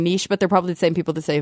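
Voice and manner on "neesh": "niche" said as "neesh"; long ee and sh in "niche"; "neesh" pronunciation. Shown as a demonstration. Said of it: "hear Americans saying niche".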